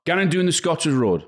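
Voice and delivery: Geordie, gannon doing the Scotswood Road; sing-song Geordie line for them to copy; Geordie accent. Shown as a demonstration. Asked to say something in Geordie for them, Geordie accent. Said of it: "You say something in Geordie".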